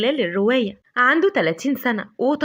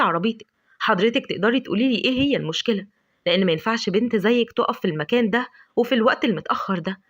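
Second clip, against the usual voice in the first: lower, calm and courteous apology; politely; 3 semitones lower than usual. Acted. Adham politely apologising to frightened Lavender, calm lower voice. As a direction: reassure her gently, keep it polite. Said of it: "رد عليها بكل تهذيب".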